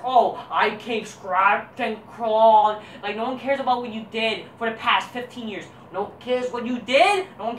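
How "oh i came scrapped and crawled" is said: mocking indie wrestler. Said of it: "indie guy that says".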